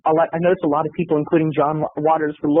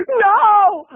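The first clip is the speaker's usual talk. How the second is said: squeaky no; 5 dB louder than usual. Retold or imitated. Indignant denial.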